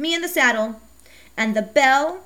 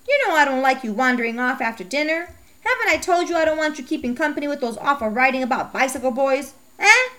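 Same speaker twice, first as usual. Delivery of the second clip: scolding mother; 3 semitones higher than usual. Acted. Mom scolding Becky for wanting a bike, high and exasperated. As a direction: play a sharp, fed-up mother.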